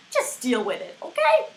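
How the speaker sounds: shouted okay. Real, not acted. Yelling at mom on street.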